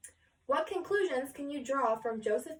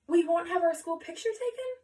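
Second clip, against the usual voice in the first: sobbing; 7 semitones higher, 5 dB louder than usual. Acted. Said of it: "Twenty-two children sobbed".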